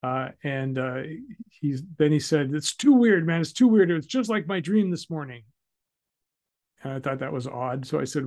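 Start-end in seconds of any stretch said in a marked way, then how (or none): 2.6-5.4 high, loud rattled outburst; imitating a spooked gunman; freaked out. Shooter spooked by the victim, loud high panic. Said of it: "he freaked out".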